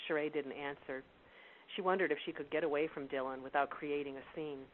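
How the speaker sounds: steady, measured storytelling read; story narration. A narrator's reading. Reads novel excerpt aloud.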